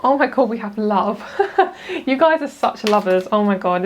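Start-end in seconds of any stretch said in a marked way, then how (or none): 1.3-2.0 quick high giggle of delight; giggling with delight at the cards; delighted laugh. Real, not acted. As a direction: burst into a bright little laugh. Delighted by the card reveal.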